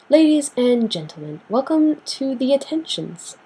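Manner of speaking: mock announcer. Announces her next topic like a host.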